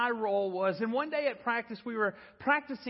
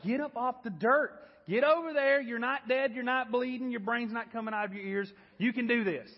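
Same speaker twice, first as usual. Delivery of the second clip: tough coach barking orders; 3 semitones higher than usual. Retold or imitated. Coach orders the stunned boy up off the dirt, barking. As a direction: bark him back onto the field. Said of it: "then it was like".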